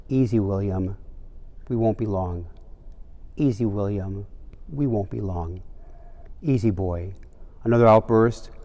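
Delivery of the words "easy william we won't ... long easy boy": mildly restrained grandpa, steady and falling; controlled, calm. Retold or imitated. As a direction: keep it under control, soothing a child. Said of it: "saying in a very controlled voice".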